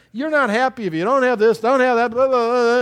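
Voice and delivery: a hint of a fast, pushy ad voice rattling it off; mock advertising pitch. Preacher mocking Madison Avenue ads, fast and pushy. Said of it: "I have to say that with emphasis".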